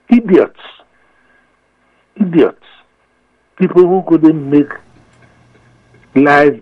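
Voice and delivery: indignant outburst. Real, not acted. Angry outburst about politicians.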